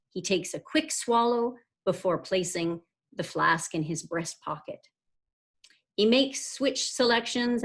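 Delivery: measured, carefully phrased book reading; story narration. A narrator's reading. Author reading the novel's opening to listeners, story narration. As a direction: read the scene aloud like a novelist. Reads own book aloud.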